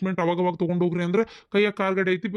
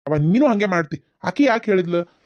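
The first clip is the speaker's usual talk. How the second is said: scolding mother; 5 dB louder than usual. Acted. Son scolds his mother.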